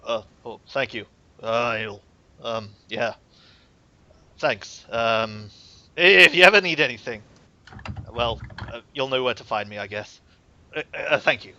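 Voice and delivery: lightly voiced, hesitant Viking; a hint of Viking, halting with long pauses; shy Viking. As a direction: stumble through awkward thanks as a bashful big man. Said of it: "in my best Viking voice".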